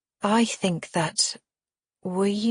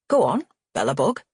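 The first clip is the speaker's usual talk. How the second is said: a lightly voiced elderly dad, fond; a hint of an old man's tender voice; gentle old father voice; 3 semitones lower than usual.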